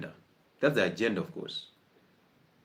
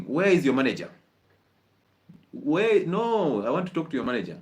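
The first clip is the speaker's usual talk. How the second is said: mock indignant demand, pitched up on the protest; angry customer; 3 semitones higher than usual. Hungry customer to restaurant staff over delayed food, acted anger. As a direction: play a hungry diner demanding the manager. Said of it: "you're already angry".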